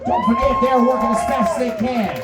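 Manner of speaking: rally the room for the bartenders; emcee shout. Real, not acted. Emcee calling for bartender applause.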